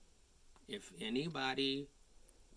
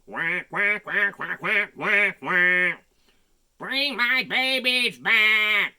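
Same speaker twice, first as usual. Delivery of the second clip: loud, higher frantic duck cry; 8 semitones higher, 16 dB louder, slower than usual. Acted. Mama Duck chasing the fireman, frantic loud cry. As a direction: shout it as a desperate mother duck. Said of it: "she cried".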